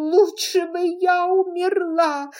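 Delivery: high, loud sobbing cry; wailing sob. Acted. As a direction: abandon yourself to tears. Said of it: "самозабвенно всхлипывала она".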